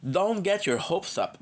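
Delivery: slow, stretched DON'T GET YOUR HOPES UP; drawn-out repeat. Acted. Streamer letting a friend down, slowly drawn out.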